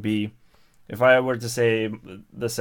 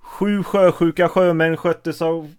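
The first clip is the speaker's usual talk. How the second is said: higher-pitched Swedish tongue twister; 6 semitones higher, 4 dB louder than usual. Shown as a demonstration. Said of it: "you have a tongue twister".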